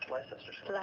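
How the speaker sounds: "Leicester Square" as LIE-sester Square; joke mispronunciation. Pretend. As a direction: playfully misread "Leicester" letter by letter in "Leicester Square". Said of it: "is the classic one".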